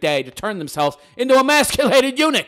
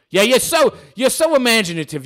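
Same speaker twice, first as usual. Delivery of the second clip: sarcastic; 7 semitones higher, 6 dB louder than usual. Acted. Sarcastic praise of name.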